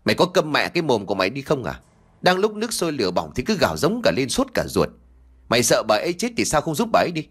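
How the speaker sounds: fast, irritated snapping; snapping angrily. Acted. Annoyed villager snaps at the wailing woman, fast and angry. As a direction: snap at her to shut up, fast. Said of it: "bực tức mà gắt".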